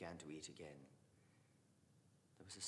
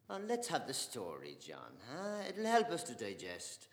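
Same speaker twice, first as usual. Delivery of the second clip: good humour; 4 semitones higher, 10 dB louder than usual. Acted. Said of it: "in good humour".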